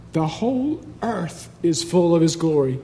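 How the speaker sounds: soft, measured reading of scripture; softened, reverent quote; hushed awe. Acted. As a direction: say it quietly, with a lift on EARTH. Quiet re-reading of shouted verse.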